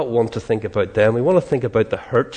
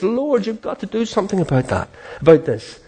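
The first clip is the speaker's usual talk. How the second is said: higher-pitched, mildly desperate plea; retold despair; 6 semitones higher than usual. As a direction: plead with God in mock despair. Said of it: "until he got despair".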